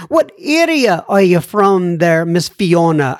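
playful attempt at a Scottish accent; mock Scottish accent. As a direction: put on a light Scottish lilt. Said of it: "a wee bit of the Scottish accent".

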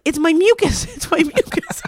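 high, laughing mock panic over a fall; mock panicked scream. To her partner after slipping, high laughing panic. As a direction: squeal it through laughter, high and frantic. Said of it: "I started screaming at him".

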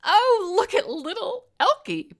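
Penny taunting Hannah about her son, high and gushing; giggly rival. Acted. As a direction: coo it with a needling sweetness. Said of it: "Penny giggled".

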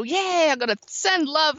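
mock cheer. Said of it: "you're gonna go".

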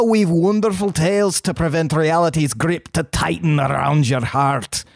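put-on broad Scottish accent reading. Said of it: "this one needs to be read in a Scottish accent".

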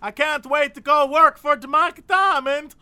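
lightly voiced eager young recruit; mock earnest new apprentice; hint of a proud young guy; Jose voice. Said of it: "And so he's like".

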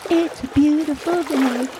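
high, gleeful yell from the raft; yelling happily. Retold or imitated. Girls on the raft yelling to diners, gleeful high call. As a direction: call it out to the whole crowd. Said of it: "I think we were yelling".

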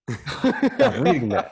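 very high, loud, drawn-out comic plea; hammed-up scolding, stretched slowly; mock exasperated yell. One saint telling another to quit studying European books, mock exasperated yell.

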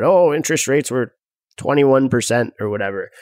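a hint of an old boomer; lightly voiced boomer reminiscing; grumbling out of touch boomer. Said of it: "That was my boomer voice".

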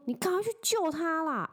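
high, pressing retold urging; a half-acted urgent plea to her boyfriend. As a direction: push him to go help, fast. Urging tall boyfriend to intervene.

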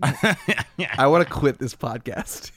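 slow words broken by laughter; laughing exasperation. Real, not acted. Host giving up on the golf podcast, laughing exasperation. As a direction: laugh through a mock resignation.

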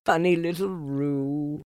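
high amused mother; fond, amused mother; Kanga voice. A narrator's reading. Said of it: "said Kanga".

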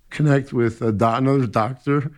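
choking up mid-sentence; crying a little. Real, not acted. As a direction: voice thick with real tears, holding them back. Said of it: "I'm crying a little".

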